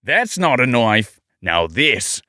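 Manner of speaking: hammed-up Aussie drawl, last phrase drawn out; mock-tough Australian accent. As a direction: play it broad Australian. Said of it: "I have to get Australian".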